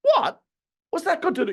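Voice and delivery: high, loud outburst of disbelief; incredulous what. Retold or imitated. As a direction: scoff at a ridiculous excuse. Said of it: "And you think".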